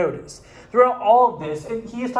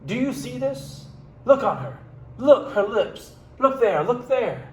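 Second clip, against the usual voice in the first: dramatic reading. Acted. Reads King Lear's lament aloud.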